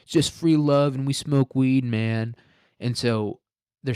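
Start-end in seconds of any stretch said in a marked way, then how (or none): 0.0-2.3 hippie commune member. Retold or imitated. Quoting the hippie cult's creed, mock hippie. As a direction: push it out like a free-love stoner.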